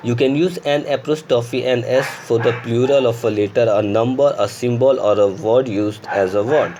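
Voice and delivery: very slow dictation of the rule; slow rule reading. Shown as a demonstration. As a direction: read the rule aloud word by word. Reads grammar rule slowly. (धीमी गति से नियम पढ़ना)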